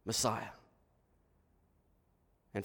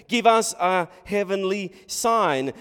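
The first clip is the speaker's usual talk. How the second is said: slow, loud, raised demand; demanding Pharisee; 7 semitones higher, 7 dB louder than usual. Acted. Pharisees asking Jesus for a sign, slow loud demand. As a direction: spell out the demand slowly and forcefully. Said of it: "the Pharisees say".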